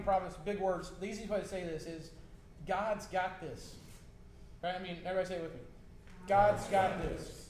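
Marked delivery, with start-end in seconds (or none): 6.3-7.5 slow, emphatic congregational lead; slow, louder declaration; call-and-response rally. Real, not acted. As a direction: proclaim it for the crowd to echo. Leading congregation in repeating phrase.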